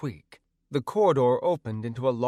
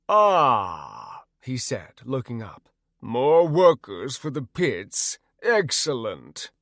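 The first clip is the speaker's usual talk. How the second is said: gloating troll voice; 4 dB louder, slower than usual. Acted. Fire troll speaks.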